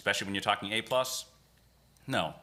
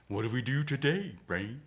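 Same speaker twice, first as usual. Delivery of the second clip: higher, a light cartoon Pinky lilt; Pinky impression; 3 semitones higher than usual. Cohost quoting the cartoon to his partner, lightly voiced Pinky. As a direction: toss it off like the silly cartoon sidekick. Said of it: "That's Pinky".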